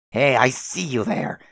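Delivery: loud, slow call across a distance. Acted. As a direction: shout up to someone far away. Calling out to the sky.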